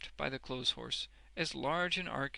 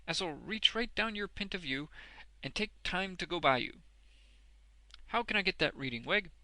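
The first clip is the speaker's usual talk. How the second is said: higher, loud rustic voice; eager Boffin; 6 semitones higher, 4 dB louder than usual. A narrator's reading. Boffin asks Wegg for reading, eagerly. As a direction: press the question keenly.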